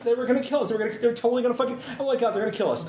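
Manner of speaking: panicked. Acted. Panicked character telling the shooting.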